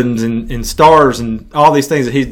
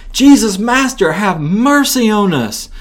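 crying out for mercy; 6 semitones higher, slower than usual. Acted. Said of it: "they cry out to Jesus".

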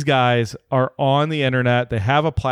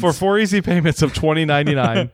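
fast, upbeat sales pitch; home shopping host; 3 semitones higher, faster than usual. Pretend. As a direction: rattle off the price like a TV ad. Mock infomercial pitch.

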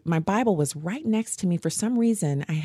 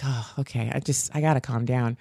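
1 calming down; 4 semitones lower than usual. Retold or imitated. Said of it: "take a deep breath".

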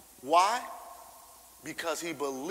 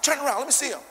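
excited king; 9 semitones higher, 7 dB louder, faster than usual. Retold or imitated. King inspects Daniel eagerly.

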